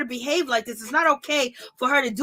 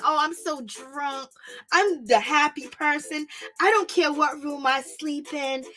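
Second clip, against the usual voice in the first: mock tipsy sweetness. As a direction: play the smiling drunk who's plotting. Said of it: "she smiles and".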